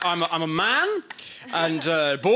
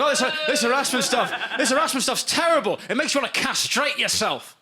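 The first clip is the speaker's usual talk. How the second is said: imitating a whining friend, pitched up; mock earnest complaint in a higher voice; 5 semitones higher than usual. Comic mimics his friend's complaints about harassment, whining. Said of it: "he's always fucking whining".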